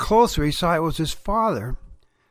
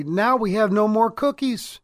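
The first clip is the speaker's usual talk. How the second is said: usual speaking voice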